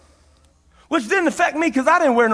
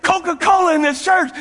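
protesting; 6 semitones higher than usual. Retold or imitated. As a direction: demand an answer, indignant. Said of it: "I said".

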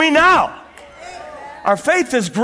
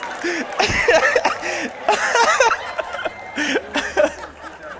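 long laughing fit; 6 semitones higher, 3 dB quieter than usual. Real, not acted. Preacher laughing at own story.

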